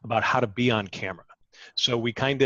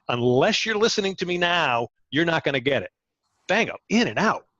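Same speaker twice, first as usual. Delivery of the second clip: live remote reporter. Shown as a demonstration. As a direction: pitch the restaurant special like a live TV spot. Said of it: "I do live remotes for, uh, for restaurants".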